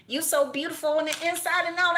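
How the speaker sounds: giddy praise; excited gush. Real, not acted. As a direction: squeal it out in delight. Gushing over a message.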